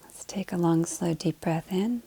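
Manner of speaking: soft, unhurried meditation voice with long pauses; guided meditation. Acted. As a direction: gently guide them into the breath. Leads breathing to settle in.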